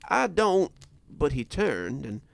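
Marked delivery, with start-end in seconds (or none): 0.1-0.7 louder, higher, uneasy start; forced out. A narrator's reading. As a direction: push the words out with effort. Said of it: "had to force the words past my teeth".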